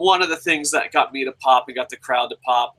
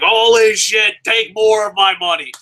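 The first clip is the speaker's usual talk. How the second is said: mock excited; 6 semitones higher, 6 dB louder than usual. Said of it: "it was like".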